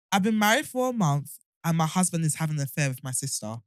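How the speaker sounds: reading with a retainer in; tongue catching on the retainer; wearing a retainer. Real, not acted. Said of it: "my retainers are ruining my life".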